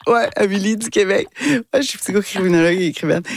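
put-on light Québécois accent, bright and quick, softened for the French; toned-down Québec accent. Amélie introducing herself to French players, softened Québec accent. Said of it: "j'avais changé un peu mon accent".

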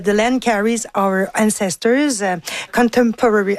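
English title read with a Québécois French accent. Real, not acted. Guest naming an art book to the hosts, French-accented English. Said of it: "excusez mon accent".

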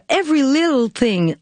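song title said in her Lac-Saint-Jean accented English; Quebec-accented English. Real, not acted. Host introducing the song to listeners, in a Quebec-accented English title. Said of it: "j'ai toujours de la misère à le dire".

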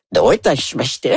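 Japanese phrase in one's own low voice; uncorrected low attempt. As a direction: repeat it plainly in your deep register. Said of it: "je prononce pas correctement".

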